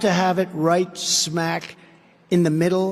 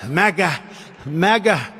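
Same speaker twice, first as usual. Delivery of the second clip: mocking quote. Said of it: "He always says".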